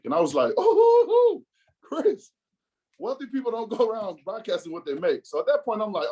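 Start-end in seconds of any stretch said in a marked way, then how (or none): 0.6-5.2 shrill high mocking echo on the oh. Teasing his friend by parroting his words, mocking. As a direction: parrot his line back in a teasing sing-song. Mock repeat of friend's line.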